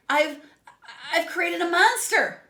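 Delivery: high, loud, laughing hysterically; mad scientist laugh. A narrator's reading. Pig admitting he made a monster, laughing madly. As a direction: cackle through the confession.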